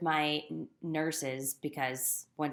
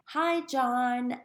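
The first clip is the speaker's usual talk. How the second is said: higher, louder bright greeting read off a sign; cheerful sign read; 8 semitones higher, 6 dB louder than usual. Retold or imitated. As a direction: call it out like a big happy banner. Reading the cheerful sign aloud.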